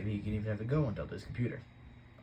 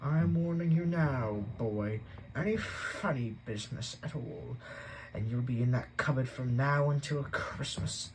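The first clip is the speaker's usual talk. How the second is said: slow, pointed threat; stern warning; 2 semitones higher, slower than usual. Acted. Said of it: "he had said".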